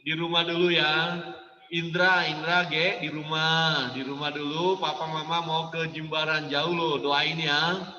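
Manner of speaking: tender request, no scolding; gentle parent. Shown as a demonstration. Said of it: "dengan lemah lembut".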